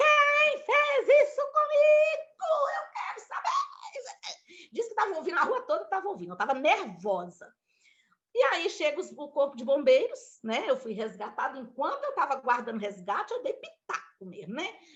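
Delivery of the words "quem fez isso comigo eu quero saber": very high-pitched, slow, drawn-out shout. Recounting lying injured in the street after being hit, retelling her own shouting. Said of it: "eu gritando na rua".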